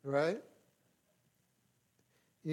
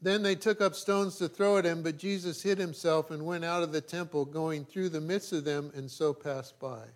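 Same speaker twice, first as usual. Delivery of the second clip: raised, declaiming Bible reading; scripture reading. Acted. Pastor reading John aloud to the church, declaiming. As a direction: proclaim the text to the congregation.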